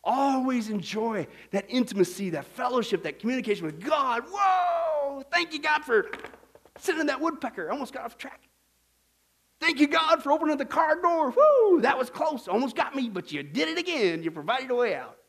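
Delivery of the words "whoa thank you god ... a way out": mock startled thanks. Acting out a near miss.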